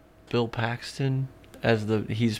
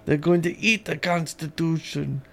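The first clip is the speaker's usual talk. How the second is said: hammed-up villain; 6 semitones higher than usual. Impersonating a movie villain.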